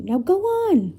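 urgent order. A narrator's reading. Professor urging the children over the bridge, urgent.

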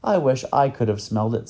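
a touch of longing; wistful. Acted. Boy wishing he had smelled it too, mildly wistful. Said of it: "said Ben wistfully".

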